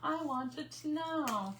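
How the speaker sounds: mock spoiled girl whining, slow and nasal-free; Veruca Salt again. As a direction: stretch every word like a sulking spoiled child. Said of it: "Yes, Veruca".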